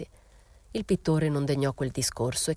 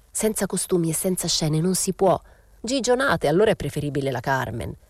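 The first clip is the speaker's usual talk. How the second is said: dismissive, scoffing; arguing guest. Acted. A guest scoffing at a staging without costumes, dismissive. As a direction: wave the idea away with scorn.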